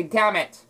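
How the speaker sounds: "damn it" with no N; silent N. Shown as a demonstration. Showing the N is silent in damn it. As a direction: drop the N in "damn it". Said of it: "But the N is silent".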